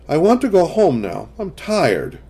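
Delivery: put-on a small girl saying she's tired; child Kathy. A narrator's reading.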